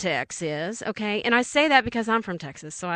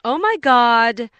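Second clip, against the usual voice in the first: retold alarm; 5 dB louder, slower than usual. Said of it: "you're just kind of sitting there going".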